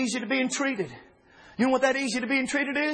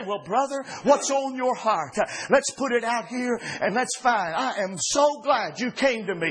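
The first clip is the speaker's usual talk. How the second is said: slow, gentle and welcoming; gracious welcome; slower than usual. Shown as a demonstration. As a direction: show how to receive a brother kindly, slowly.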